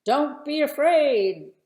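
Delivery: put-on high, loud brave shepherd boy; brave boy's call. A narrator's reading. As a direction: call out bravely to reassure the soldiers. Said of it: "David said".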